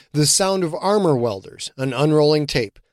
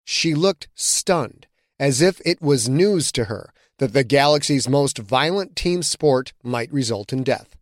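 ordinary delivery, nothing marked

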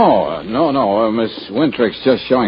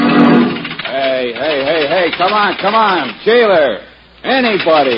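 raised, high-pitched call for attention; 8 semitones higher, 4 dB louder, slower than usual. Acted. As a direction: call impatiently for the jailer. Calling out from jail for help.

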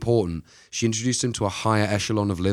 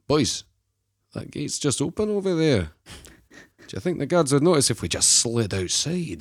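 higher-pitched put-on escapee voice; conspiring prisoner; 5 semitones higher than usual. Archie talking fellow prisoners into slipping out, put-on conspiring voice. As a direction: play a prisoner slyly suggesting an escape.

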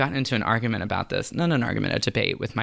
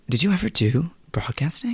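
excited gasped whisper; 5 semitones higher than usual. Real, not acted. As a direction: breathe it out in a hush. Gasp, excited hushed question.

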